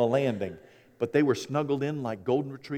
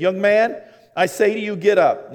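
higher, louder firm command; commanding Jesus; 6 semitones higher, 7 dB louder than usual. Retold or imitated. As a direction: call the dead man up with authority. Jesus raising the dead man.

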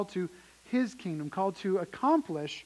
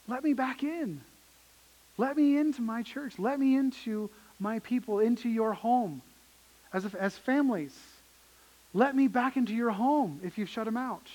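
gentle pleading Jesus; 4 semitones higher than usual. Acted. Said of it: "this is Jesus saying".

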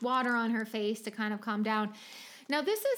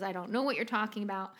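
quick, dry imitation; understated deadpan quote; much faster than usual. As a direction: toss it off without expression. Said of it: "there's, like, a dryness".

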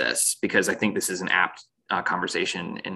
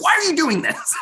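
much higher, louder mock outrage through a laugh; mock angry parent; 5 dB louder, faster than usual. Podcaster playing an exasperated parent at a reckless kid, high and laughing. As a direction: squeal the scolding while laughing. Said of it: "I'm getting angry".

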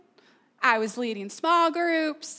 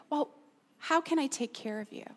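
kind; 7 dB quieter than usual. Acted. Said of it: "But God's kind of".

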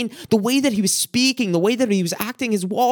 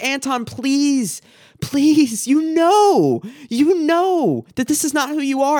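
rising earnest plea; 5 semitones higher, slower than usual. Retold or imitated. Holding brother by shoulders, pleading.

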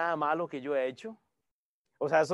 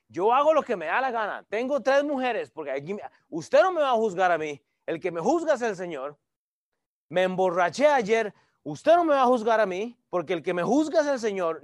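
arrogant sinner; 4 semitones higher, 4 dB louder than usual. Retold or imitated. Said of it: "usted se ha topado a esos".

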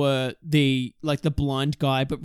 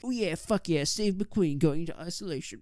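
hushed cheer building to a laughing finish; mock admiration; 2 semitones higher than usual. Onlookers admiring Steve McQueen walking to isolation, mock hushed cheering that builds.

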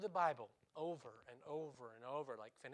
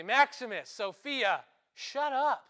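loud, raised mock yell; retold shouted command; 6 semitones higher, 12 dB louder, slower than usual. Owner yelling at his barking dogs, retold shouted command. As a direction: call out sharply to silence the dogs.

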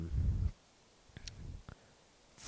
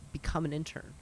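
whisper; 2 semitones higher, 9 dB quieter than usual. Acted. Aside in podcast plug.

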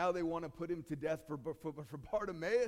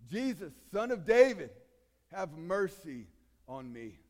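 crying out louder; 7 dB louder than usual. Retold or imitated. Beggar cries out again, desperate and much louder. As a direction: shout it from the depths of the soul. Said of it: "he cries out".

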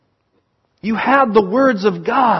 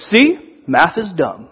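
put-on angry kid; slower than usual. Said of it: "he was just angry".

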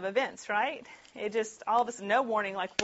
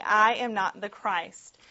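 louder, slowed, stress on each word; emphatic denial; 7 dB louder, slower than usual. Acted. John insists to the questioners he is not the Christ, slow and emphatic. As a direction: press the denial home slowly. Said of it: "he's being very emphatic about saying".

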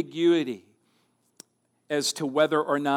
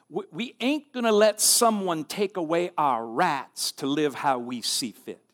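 put-on Southern accent. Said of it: "Sorry my, for my southern accent".

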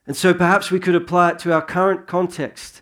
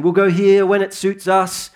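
mock boasting; 4 semitones higher than usual. Preacher voicing self-assured merchants of the early church, mildly boastful. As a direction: put on a mild boast, easing off at the end. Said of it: "who are boasting about saying".

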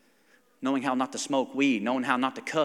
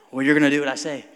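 loud, laughing parental order; dad laughing; 8 dB louder, faster than usual. Retold or imitated. Dad laughs while ordering son into shower. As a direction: boss the kid while laughing.

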